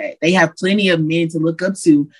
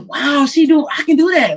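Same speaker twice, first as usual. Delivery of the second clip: put-on inspired little girl; 8 semitones higher than usual.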